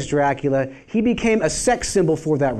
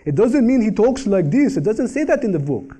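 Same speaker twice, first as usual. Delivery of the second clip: mock Hungarian vampire accent, pitched up; raised, hammy Eastern European vampire accent; Bela Lugosi; 5 semitones higher than usual. Shown as a demonstration. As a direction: imitate the movie vampire's accent in a higher voice. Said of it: "That's how Bela Lugosi talked naturally".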